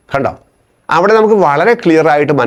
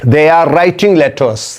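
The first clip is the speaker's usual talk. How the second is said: slow dictation; much slower than usual. Shown as a demonstration. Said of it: "രണ്ടാമത്".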